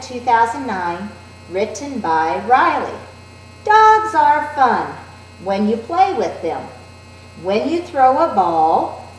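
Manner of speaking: put-on slow, clear read-aloud for young children; teacher modeling fluent reading. Shown as a demonstration. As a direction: read each line smoothly left to right, slow and clear. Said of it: "I'm modeling that left to right and fluency".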